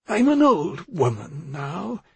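put-on high, drawn-out old woman's voice; pleading old woman. A narrator's reading. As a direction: play the frail woman asking for indulgence.

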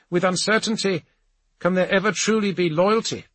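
high-pitched, declaiming ambassador; formal proclamation, pitched well up; Vetherel, resolute ambassador. Acted. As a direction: lay down the law to a council from on high. Narrator voices Vetherel's speech.

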